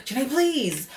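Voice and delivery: high-pitched imitation of begging; mock pleading. Imitating the man begging Janae, mock pleading. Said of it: "reminded me of that when he said".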